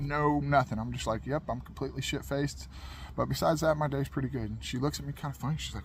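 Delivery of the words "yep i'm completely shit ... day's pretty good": quiet, matter-of-fact, no trace of a grin; deadpan, softer. Retold or imitated. Retelling the line to the viewers, a quiet deadpan. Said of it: "I just said it straight-faced".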